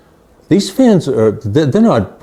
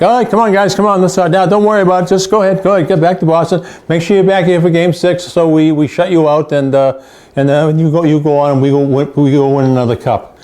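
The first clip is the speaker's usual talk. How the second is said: much higher, cocky mock customs agent; gloating customs officer; 5 semitones higher, faster than usual. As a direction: wave the losing fans through and rub it in. Voicing Montreal customs officer gloating.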